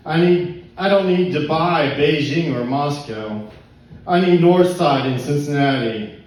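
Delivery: rhythmic spoken-word delivery, line by line; poetry reading. Acted. Poet praises favorite neighborhood to pub crowd, poetry reading. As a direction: declaim it like a slam poem. Reads second poem aloud.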